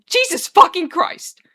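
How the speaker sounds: slow, high, loud wail. A narrator's reading. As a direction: wail it out in exasperated despair. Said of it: "Arthur wails again".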